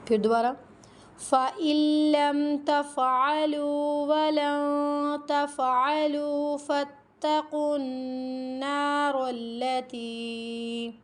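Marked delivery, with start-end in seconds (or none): 1.2-10.9 slow melodic chanted recitation; Quran recitation. Acted. Teacher reciting the verse to her students, melodic chant. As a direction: chant the verse in measured tajweed.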